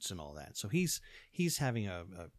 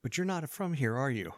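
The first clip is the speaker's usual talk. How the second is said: imitated local's question, higher and louder; lightly voiced Michael; 5 semitones higher, 6 dB louder than usual. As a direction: quote him with a raised, probing voice. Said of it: "Michael looked at me and goes".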